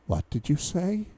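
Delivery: high, startled question; stunned by the word; surprised. A narrator's reading. Mother shocked by child's word.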